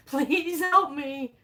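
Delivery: high, slow mock begging; pleading dog. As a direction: draw out a pitiful plea as the dog. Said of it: "He's looking at me like".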